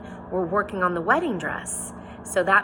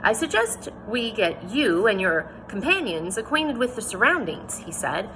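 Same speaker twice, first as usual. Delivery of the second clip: reading a novel aloud to the class, voicing each speaker; teacher reads the chapter aloud to students, story narration; 2 semitones higher than usual. A narrator's reading.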